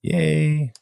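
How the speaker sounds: high squeaky yay; excited cheer. Real, not acted. Cheering at news of new setup.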